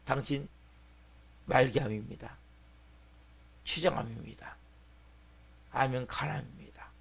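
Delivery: understated doctor breaking bad news; doctor giving a diagnosis. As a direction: deliver a grave verdict in a subdued voice. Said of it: "갑자기 사형선고가 떨어진".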